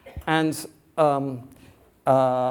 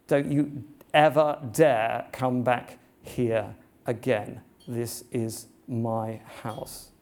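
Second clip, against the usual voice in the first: slow, low, firm warning to the devil; Jesus warning the devil off, slow and stern; stern command; 3 semitones lower, slower than usual. Retold or imitated. Jesus drives the devil away.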